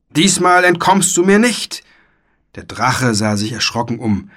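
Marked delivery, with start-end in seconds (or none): 0.1-1.8 high, loud threat; knight's roar. A narrator's reading. White knight threatening the dragon, roaring high and loud. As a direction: call it out as a storybook knight on the attack. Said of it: "brüllte der weiße Ritter".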